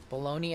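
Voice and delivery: Bologna said as buh-LOH-nee; sandwich-style pronunciation. Shown as a demonstration. Streamer tries the club name on viewers, Bologna as baloney. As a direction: say Bologna like the lunch meat, baloney. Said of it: "Is that really how it's pronounced".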